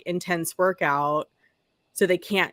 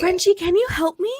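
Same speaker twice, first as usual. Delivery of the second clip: attempted Australian accent; 10 semitones higher, 3 dB louder than usual. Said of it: "I can't do an Australian accent".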